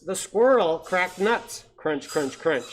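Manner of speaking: stretched, emphatic picture-book opening, then rhythmic refrain; read-aloud storytelling. A narrator's reading. Reading an owl picture book to children, lively storytelling. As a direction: read it out big for small listeners.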